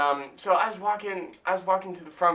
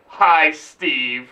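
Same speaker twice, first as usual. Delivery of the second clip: louder, pointed mock greeting; pissed-off greeting; 2 semitones lower, 5 dB louder than usual. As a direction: greet him like you hold a grudge. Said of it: "had pissed off".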